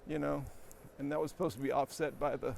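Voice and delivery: ordinary talk, nothing marked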